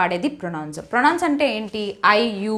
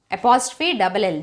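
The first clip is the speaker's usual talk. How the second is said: slow spelling out; 3 semitones lower, much slower than usual. Shown as a demonstration. Teacher spelling a contraction slowly for students. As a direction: spell "apostrophe double L" very slowly. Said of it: "They will వచ్చినప్పుడు they'll అని వస్తుంది".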